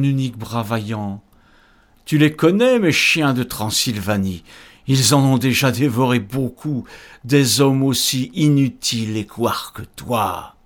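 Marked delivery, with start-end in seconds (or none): 2.1-10.5 booming demon lord, menacing; cavernous ogre voice. Acted. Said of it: "sa voix sépulcrale méprisante".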